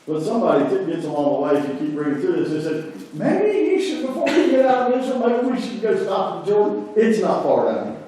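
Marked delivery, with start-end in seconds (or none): 3.1-8.0 high, hesitant suggestion; timid servant. Retold or imitated. Servant on the road urging Naaman toward the Jordan, timid and high. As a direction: coax the master gently, pitched high.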